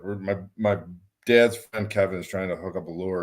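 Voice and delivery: usual speaking voice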